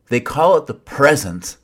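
sing-song mock of a cliche. Shown as a demonstration. Preacher mocking a proverb he finds corny, sing-song. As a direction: say it like an eye-rolling parody. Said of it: "I can't even say it without mocking it".

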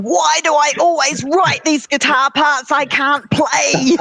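high, drawn-out wail of frustration; mock scream. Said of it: "comes out of the studio screaming".

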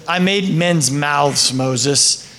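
slow, settled voice of God, dropping low on the name; calm God. Retold or imitated. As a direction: answer gently and slowly. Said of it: "And God's like".

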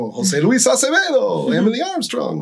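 high, puffed-up boast without real volume; proud mock shout. Pastors in the crowd boasting proudly, high mock shout. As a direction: brag about being the pastor. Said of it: "gritaron con orgullo".

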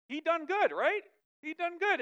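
put-on playful southern accent on he done good. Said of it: "Look at me getting all southern".

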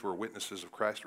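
lightly put-on Southern US accent. Preacher imitating an old-school Baptist church, Southern accent. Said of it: "always use a Southern accent".

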